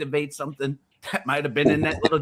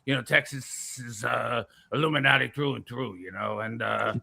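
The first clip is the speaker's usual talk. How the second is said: lightly voiced rumble in the back; a hint of a rumbling impression; Alex Jones. Conspiracy talker explaining to Vic, lightly rumbling put-on voice. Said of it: "it's a little rumbling".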